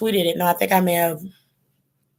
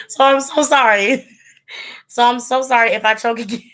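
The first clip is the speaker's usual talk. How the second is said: laughing apology; 4 semitones higher than usual. Real, not acted. Laughing at her own coughing.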